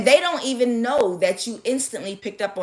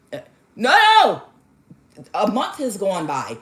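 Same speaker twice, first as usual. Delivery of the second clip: play-acted loud objection, pitched way up; mock protest; 4 dB louder than usual. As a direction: protest in a hammed-up cry. Client protests in acted exchange.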